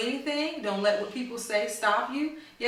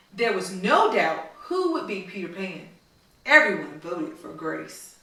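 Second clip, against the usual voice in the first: storybook read-aloud to a class; reading to children; 3 semitones lower than usual. A narrator's reading. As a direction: read it like a story for little kids. Teacher reads picture book aloud.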